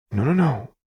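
soft reassurance. A narrator's reading. Lux stopping Jinx's self-blame, soft reassurance. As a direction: hurry to comfort, tenderly. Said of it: "Lux said softly".

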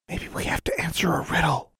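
put-on high, whispered little-girl suggestion. A narrator's reading. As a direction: whisper it timidly as a small girl. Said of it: "whispered Sylvia".

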